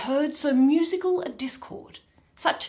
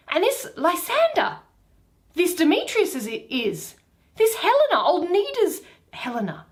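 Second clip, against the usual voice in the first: surprised discovery; 5 semitones higher than usual. Acted. Egeus surprised at sleepers.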